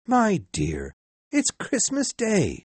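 gentle. A narrator's reading. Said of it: "Bob only said gently".

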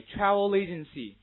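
"travel agency" slow and loud, l joined to the following vowel; linked reading. Shown as a demonstration. Teacher drilling an unfamiliar exam phrase, slow linked reading. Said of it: "Read after me".

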